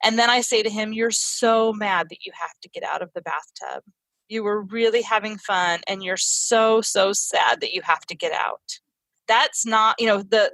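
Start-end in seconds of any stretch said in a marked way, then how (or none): 0.9-8.6 put-on gently name the child's anger and sadness; empathetic seen version. Shown as a demonstration. Mother to upset son in the tub, tender and understanding. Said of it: "the non-seen version of that is".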